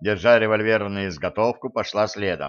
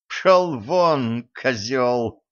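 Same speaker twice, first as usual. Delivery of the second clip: put-on drunken shout; 2 semitones higher, much slower than usual. A narrator's reading. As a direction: yell it at him, slurring with drink. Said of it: "пьяно крикнула Ирина". (пьяный крик, выше обычного)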